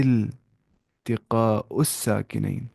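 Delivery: slow, drawn-out التقاء الساکنین for students to repeat; slow classroom model reading; slow teacher repeat. Shown as a demonstration. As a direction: spell the term out slowly. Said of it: "کیا بولتے ہیں؟".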